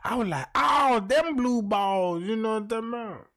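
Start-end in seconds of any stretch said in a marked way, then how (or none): 0.5-2.2 higher and slow, drawn-out "Oh, them blue balls"; mock amazed recognition; dawning realization. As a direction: let it dawn on you, stretching it out. The speaker realizes what it means.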